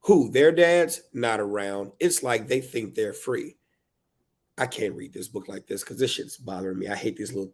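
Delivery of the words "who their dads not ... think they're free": exasperated poem reading. Acted. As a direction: read it as an overburdened parent. Performs book's verse.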